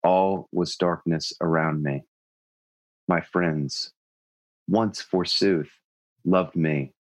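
put-on overwrought teen poet, slow and solemn; hammy stage actor. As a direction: recite it like a melodramatic teenage poem. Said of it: "can I do an imitation of that poem?".

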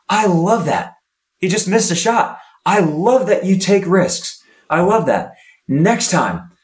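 upbeat coaching. Retold or imitated. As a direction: praise the risk, then guide gently. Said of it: "a positive inflection".

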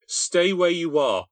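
high, loud, slow and firm; urgent command. A narrator's reading. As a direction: order her to stay put.

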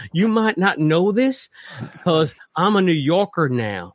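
lightly voiced Texan pet dog; a hint of silly Southern dog voice; dog Penelope voice. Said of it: "it sounds like this".

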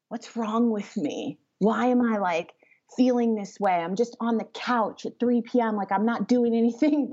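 a hint of self-judging frustration; self-critical voice. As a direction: scold yourself for lying on the couch, lightly. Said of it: "it's the tone".

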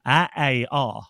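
put-on Värmland vowel-only reply, like a child; child answering in broad Värmland dialect. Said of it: "Det vill säga".

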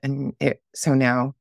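hoarse, worn-out voice after shouting. Real, not acted. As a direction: speak through a voice shouted raw. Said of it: "I woke up talking like this".

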